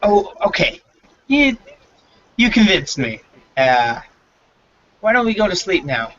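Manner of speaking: high, placating voice of a humoring guard; sing-song patronizing townsman; mock-convinced NPC. GM voices NPC mocking drunk.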